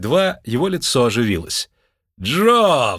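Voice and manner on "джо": звонкое радостное восклицание; обрадованно окликнуть друга; радостный возглас. A narrator's reading. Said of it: "воскликнул он". (Лунветр радостно окликает Джо, звонко)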